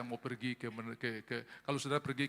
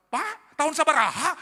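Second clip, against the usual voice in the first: high, loud Sundanese question; Sundanese accent; 13 semitones higher, 13 dB louder than usual. Retold or imitated. Pastor imitating a Bandung parking man, high loud Sundanese. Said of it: "ada orang Bandung datang".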